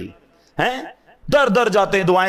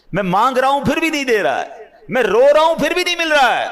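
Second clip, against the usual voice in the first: anguished plea; 6 semitones higher than usual. Acted. Pleading supplicant's lament.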